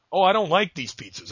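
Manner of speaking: high-pitched mock complaint; complaining date. Host plays his date rejecting the pizzas, complaining. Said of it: "and you were like".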